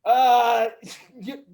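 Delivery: put-on French accent, halting; hesitant French greeting, hammed up; mock French accent, groping for words. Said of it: "like we are all from France".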